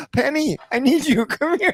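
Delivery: imitating son. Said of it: "he's always like".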